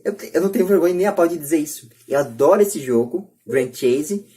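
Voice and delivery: normal talking voice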